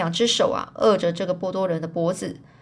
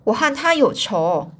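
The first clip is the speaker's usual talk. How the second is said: angry; 3 dB louder than usual. Acted. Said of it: "就很生气说".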